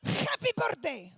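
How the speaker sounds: harsh, slow happy birthday; aggressive birthday wish. Retold or imitated. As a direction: growl a greeting like a threat. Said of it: "It comes out violent".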